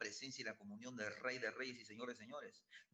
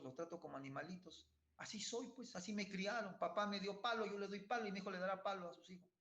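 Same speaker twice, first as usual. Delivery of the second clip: cínico conformista; 4 semitones higher than usual. Retold or imitated. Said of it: "Y dicen".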